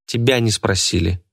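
ordinary delivery

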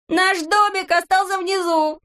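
put-on high, slow, amazed little-boy voice; excited Neznaika. A narrator's reading. Neznaika spotting their house far below, high amazement. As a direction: point down in wonder.

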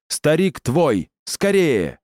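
выше, медленно и торопя; отдай ей старика криком; отчаянный крик. Acted. Священник отвлекает тварь. (отчаянный крик)

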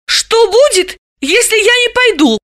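high, timid asking; cautious question. Acted. Dalila cautiously asks the drunks. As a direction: ask carefully, a little uneasy. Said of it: "осторожно спросила".

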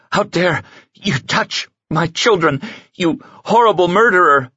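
put-on a mother defending her children; outraged mother.

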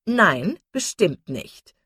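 mock-serious, drawn-out denial; affected earnestness. A narrator's reading. Miss Steele denying the doctor, affectedly earnest. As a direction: pretend grave denial, coyly. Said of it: "mit geziertem Ernst".

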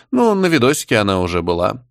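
ordinary delivery, nothing marked

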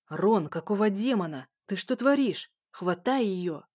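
громко и зло, рычит; злой окрик на друга; злой рык. Acted. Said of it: "прорычал тот". (прорычал)

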